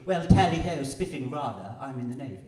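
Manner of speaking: hammed-up posh English accent; mock upper-class English officer. Poet mocking accents, hammed-up posh English. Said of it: "I canna do accents".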